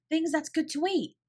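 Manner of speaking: can't believe the luck; excited break-in. A narrator's reading. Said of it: "She broke in with such excitement".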